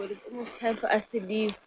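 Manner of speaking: ordinary talk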